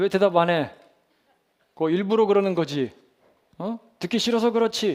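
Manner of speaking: high-pitched, loud scolding voice.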